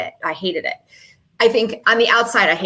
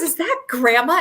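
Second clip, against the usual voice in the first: a startled question broken by laughter; laughing through the quote; 7 semitones higher than usual. Retold or imitated. Mother retelling her daughter's reaction, laughing. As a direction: laugh while repeating the daughter's shocked question.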